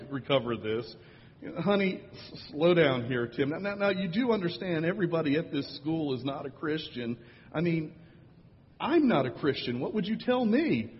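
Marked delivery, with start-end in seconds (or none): 1.6-10.9 high, pleading teacher voice; calm the child down, pitched up; teacher trying to steer a child, higher; soothing teacher. Retold or imitated.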